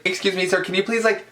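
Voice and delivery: high, polite plea in retelling; imitated polite request. Fan retelling asking an actor to move, high polite plea. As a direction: pitch it up to ask a favour.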